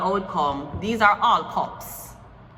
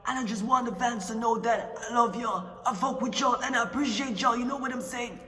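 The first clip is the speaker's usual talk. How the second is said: lightly put-on street voice, softer, mostly fast; street-talk persona; 2 semitones higher, 4 dB quieter than usual. Brash persona tells fans not to worry about rumors, lightly put on. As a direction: play a brash rapper clearing up rumors.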